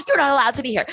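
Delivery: loud, insistent imitation of his objection; retold yelling. Man tells her she is barred from the event, mock yelling. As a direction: burst in with a mock yell. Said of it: "as he continued yelling".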